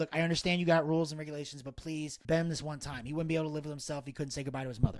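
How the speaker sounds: quick, soft plea, retold; sweet-talking. Friend begging nurse to bend the rules for a goodbye, sweet-talking. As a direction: coax gently for one exception. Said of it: "I sweet talk the nurse".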